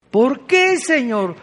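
un "¿por qué?" muy agudo y fuerte que cae en "Señor"; el pecador clama desesperado a Dios; súplica aguda. Acted. (súplica aguda y desesperada)

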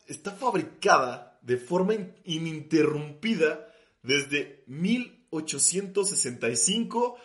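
"fabricada de forma ininterrumpida" said slowly, stumbling on "in-"; slow and halting. Real, not acted. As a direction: drag out "ininterrumpida desde mil ochocientos" carefully. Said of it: "O sea, literal".

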